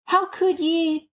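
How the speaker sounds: halting, mildly reluctant agreement. A narrator's reading. Jephson grudgingly answers Alice's question, reluctant. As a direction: concede it bit by bit, with pauses. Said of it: "with reluctance".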